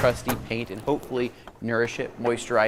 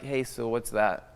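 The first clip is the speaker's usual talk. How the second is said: suspicious guard voice; 6 dB quieter, slower than usual. Retold or imitated.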